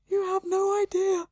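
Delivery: lightly voiced weary elven woman, high; moaning. Elven woman moans to a stranger, lightly voiced. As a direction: sigh it out like a put-upon lady. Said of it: "she moans".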